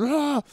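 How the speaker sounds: mock yell. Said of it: "I start going".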